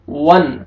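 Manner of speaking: वन short, with a clean unheld N; clear quick noon. Shown as a demonstration. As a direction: end वन promptly without humming. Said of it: "जल्दी पढ़ना है आपने". (वन जल्दी, नून साफ़)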